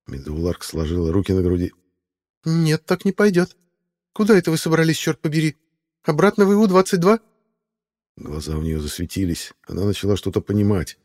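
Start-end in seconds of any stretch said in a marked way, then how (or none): 2.4-7.2 put-on high, startled then suspicious girl's voice; a nervous young woman catching them red-handed; young woman Meadowlark. A narrator's reading. Meadowlark questions Simon about the food cart, high suspicious young woman.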